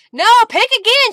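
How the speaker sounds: high, loud playful protest; loud laughing protest; exclaiming. Real, not acted. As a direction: shout it back, amused. Protesting donor's refusal.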